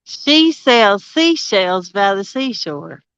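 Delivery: "She sells seashells by the seashore" said slowly, each word spaced; slow careful tongue twister. Shown as a demonstration. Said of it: "Say that".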